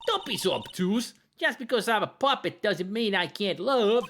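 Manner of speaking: high, pleading puppet; earnest puppet voice. Acted. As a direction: puppet insisting it can love.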